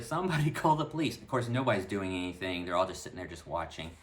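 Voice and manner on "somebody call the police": high, loud call for help; hollering loud. Retold or imitated. Calling to bystanders on the street, a high loud holler for help. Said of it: "hollering out really loud".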